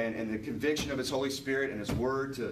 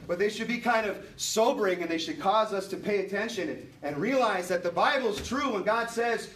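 preaching; 3 semitones higher than usual. Acted. Pastor urging the church to heed the verse, preaching earnestly. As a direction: press the warning, then intone the scripture.

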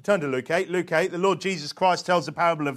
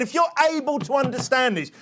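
high, moderately raised preaching voice; yelled appeal; 6 semitones higher than usual. Acted. Preacher voicing Jesus to listeners, a high raised call. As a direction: press it on the crowd. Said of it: "He yelled at them".

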